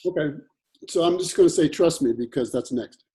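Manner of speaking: talking with mouth full; words around a bite of food. Real, not acted. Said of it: "Sorry, I'm eating something".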